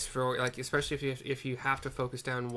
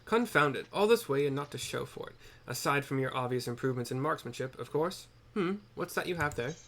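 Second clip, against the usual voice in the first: grumpy scholar; 2 semitones higher than usual. Acted. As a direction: grumble about the wasted trip. Reads NPC dialogue in a voice.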